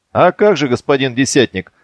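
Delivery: teasing, drawing out господин десятник; mock the boys' respectful address. Petrukha teasing the squad leader, mocking tone. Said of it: "Пётр произнёс так, что стало понятно. Передразнивает отроков".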